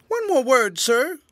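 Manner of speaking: urgent cry to the departing general. A narrator's reading. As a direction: call him back before he leaves. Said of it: "cried the tramp".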